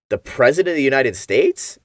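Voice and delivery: mild clueless question, rising at the end; playing dumb. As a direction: ask it like you have no idea, lifting at the end. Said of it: "you can be dumb and ask".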